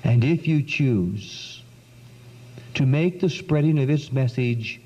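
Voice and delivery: a gentle, unhurried plea. Retold or imitated. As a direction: let each phrase fall slowly and tenderly. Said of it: "this gentle woman continued to speak".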